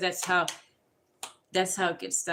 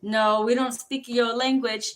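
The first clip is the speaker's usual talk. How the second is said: character voice; 3 semitones higher, 6 dB louder than usual. Pretend. Voicing a character, louder.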